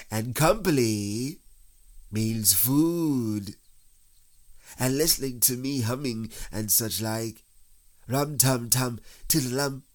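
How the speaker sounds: self-satisfied bear logic; Pooh, pondering bear. A narrator's reading. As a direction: reason it out happily. Narrator voices Pooh.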